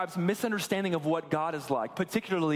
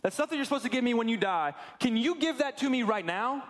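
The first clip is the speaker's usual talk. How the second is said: higher-pitched, casual ask of a dad; lightly voiced son; 4 semitones higher than usual. Younger son asking his dad for the inheritance early, lightly acted casual request. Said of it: "This younger son goes to his dad".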